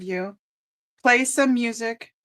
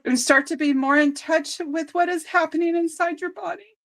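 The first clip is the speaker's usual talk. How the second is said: holding back tears; 5 semitones higher than usual. Real, not acted. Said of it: "I'm gonna start crying".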